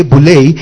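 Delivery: boule with the final E sounded and stressed; boule, accent landing on the closing E. Shown as a demonstration. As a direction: say boule with the weight on its last E. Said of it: "the last E is accentuated".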